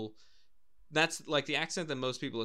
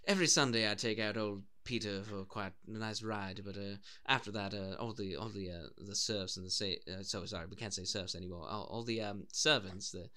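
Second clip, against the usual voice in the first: lower, mock upper-class English; posh British accent; 3 semitones lower than usual. Playing a horse owner with servants, posh British accent. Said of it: "get it too far off with our impressions".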